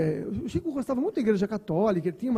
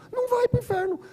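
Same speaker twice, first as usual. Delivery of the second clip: much higher, punchy command; emphatic advice; 13 semitones higher than usual. Retold or imitated. Mentor insisting Chico not go to hell, high and emphatic. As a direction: push it out high and sure.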